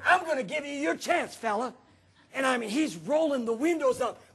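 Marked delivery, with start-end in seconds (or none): 0.1-1.7 mildly raised, higher-pitched challenge; half-yell it as a retold dare. Pastor retelling his challenge to the other driver, mock yelling. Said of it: "I'm yelling".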